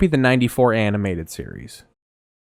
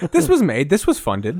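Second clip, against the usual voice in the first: laughing mimicry; 6 semitones higher than usual. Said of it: "I love that that's your criticism".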